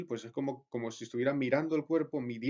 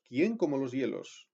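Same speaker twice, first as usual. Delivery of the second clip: «¿Quién?» hit firmly at the start, then slow; stress on quién; slower than usual. Shown as a demonstration. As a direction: lean on «¿Quién?», a slow falling read. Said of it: "con acento". («¿Quién?» acentuado, lectura lenta)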